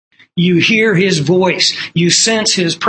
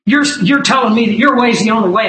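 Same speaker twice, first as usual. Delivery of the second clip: retold yelling; 4 semitones higher, faster than usual. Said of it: "he started yelling at me".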